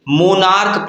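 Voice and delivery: मोनार्क ending in a hard K sound; final CH as K. Shown as a demonstration. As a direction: say मोनार्क with the written CH as K. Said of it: "इसका pronunciation क्या निकलता है".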